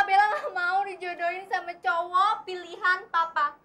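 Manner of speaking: ordinary talk, nothing marked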